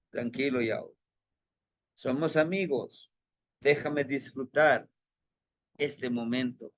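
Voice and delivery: soothing the inner voice. Retold or imitated. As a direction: gently settle a restless friend. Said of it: "Y trato de apaciguarlo".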